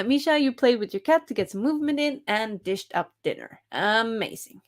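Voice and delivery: ordinary delivery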